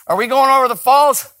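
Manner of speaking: high, loud mock panic; mock alarmed question. Preacher playing a scared rider in the canoe, in high mock alarm. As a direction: ask it like a nervous passenger in a canoe. Preacher acting worried passenger.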